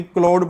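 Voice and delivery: क्लाउड said as 'klode', with a long o; variant misreading. Shown as a demonstration. Teacher lists readings for students, क्लाउड said as klode. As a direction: say क्लाउड with one o vowel, rhyming with road. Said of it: "कई लोग इसको क्लाउड भी पढ़ते हैं".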